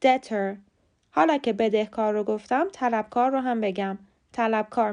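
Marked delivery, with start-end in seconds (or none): 0.0-0.6 debtor as "DET-er", falling; no B at all in debtor; silent B. Shown as a demonstration. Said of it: "بی سایلنته و خونده نمیشه".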